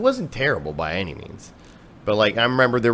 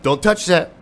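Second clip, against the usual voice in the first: higher, louder mock warning; imitating dad scolding the dog; higher, louder imitated dad warning the dog off the heater; 8 semitones higher, 5 dB louder than usual. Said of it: "He's, like, warning the dog".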